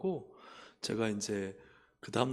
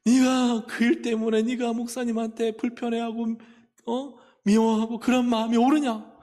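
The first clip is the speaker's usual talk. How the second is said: loud, high-pitched scolding, imitating God; preacher's booming retold reprimand; forceful rebuke; 11 semitones higher, 12 dB louder than usual. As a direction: hammer out the reproach at full voice. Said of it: "계속 저한테 하나님이요 막 책망하시는데".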